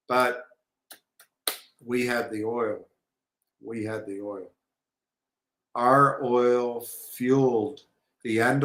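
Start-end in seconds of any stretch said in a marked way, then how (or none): 3.6-4.5 much softer repeat, letting it sink in; quiet echo. Real, not acted. Host repeating the point to listeners, much softer. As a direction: drop the voice and say it again.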